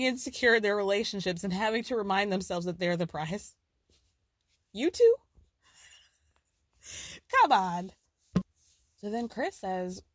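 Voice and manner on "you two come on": incredulous. Real, not acted. Mocking insecure pretty pair.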